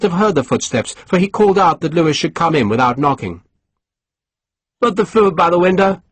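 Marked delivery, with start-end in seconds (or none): 4.8-6.0 ordering. Acted. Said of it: "he ordered".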